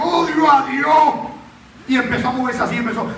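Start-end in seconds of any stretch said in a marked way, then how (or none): 0.0-1.1 loud, slow, higher shout of hatred; changed possessed voice. Retold or imitated. Possessed man shouting at the preacher, a slow loud changed voice. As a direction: drag out each word as if something else speaks. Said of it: "Cambiando la voz".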